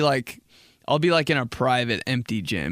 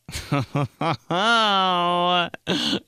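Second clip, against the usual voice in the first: mock delighted laugh; 6 semitones higher than usual. Mock delight at doorbell ring.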